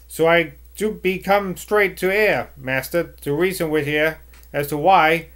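broad rustic West Country grumble; West Country servant accent. Acted. West Country accent, servant complaining to the master about gossip. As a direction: West Country burr, airing her grievance. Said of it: "Trying my accents out here".

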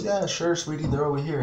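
lightly voiced sweet Walmart lady; lightly mimicking the helpful Walmart clerk; store clerk. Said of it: "She goes".

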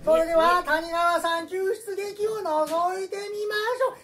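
high, loud hammy guide; mansion guide voice. Acted. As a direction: play a theatrical mansion host. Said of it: "館の案内人ですよ".

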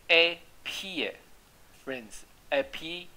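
Appearance stretched out very slowly, syllable by syllable; very slow demo. Shown as a demonstration. Teacher modelling the word for students, very slow. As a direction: drag out Appearance so every sound is clear. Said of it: "你这样念rance".

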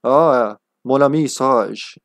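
slow, put-on French accent; imagined character's French accent. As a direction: say it with a light mock French accent. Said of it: "it's spoken with a French accent".

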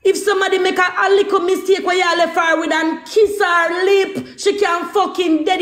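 heated shout. Real, not acted. Mother shouting at the father about the baby's risk. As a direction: shout the danger at him.

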